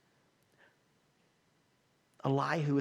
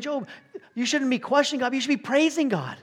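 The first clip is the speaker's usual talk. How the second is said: loud, high rebuke as Elihu; Elihu rebuking loudly; 10 semitones higher, 8 dB louder than usual. Acted. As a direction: call Job out at full volume. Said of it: "Elihu's saying".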